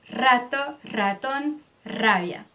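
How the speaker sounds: rato, ratón, rabia with a vibrating tongue-tip R; strong trilled R. Shown as a demonstration. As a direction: push air through the rolled R of rato, ratón and rabia. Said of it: "sair essa vibração". (R bem vibrado em rato, ratón, rabia)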